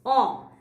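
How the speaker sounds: "o" as one long open "aw" vowel; drawn-out "o", pronounced aw; vowel sound demo. Shown as a demonstration. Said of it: "The sound is".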